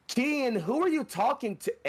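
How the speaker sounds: put-on high, piping kid brother calling through the door; little brother. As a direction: pipe up like a small boy. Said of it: "hear your brother's voice pipe in".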